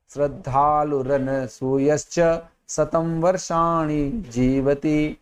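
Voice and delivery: slow, drawn-out chanting of the verse line; shloka recitation. Shown as a demonstration. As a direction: recite it slowly, stretching the end. Teacher recites rest of shloka. (धीमे स्वर में श्लोक पाठ)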